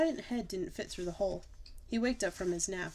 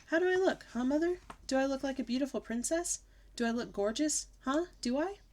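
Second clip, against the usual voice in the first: high fishing for praise; hammed-up kid preening; preening little girl; 6 semitones higher than usual. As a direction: show off like a princess. Child preening.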